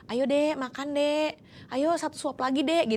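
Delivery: put-on coaxing a child to eat. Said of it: "kayak kita lagi bujuk anak makan".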